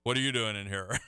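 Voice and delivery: mock low bug voice, slightly dropped. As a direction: play a bug lowering its voice. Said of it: "they'd lower their voice and say".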